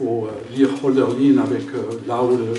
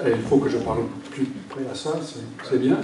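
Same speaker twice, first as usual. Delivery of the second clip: English speaker's French accent; foreign accent in french. Real, not acted. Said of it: "pardon, mon français". (accent anglais en français)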